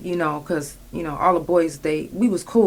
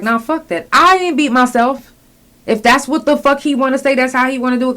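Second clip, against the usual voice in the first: defiant outburst; 7 semitones higher, 5 dB louder than usual. Retold or imitated. Retelling her defiant refusal next day.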